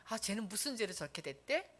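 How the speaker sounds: a quiet scornful aside; contemptuous. Retold or imitated. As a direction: imitate passers-by looking down on him. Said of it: "이러고 무시하고".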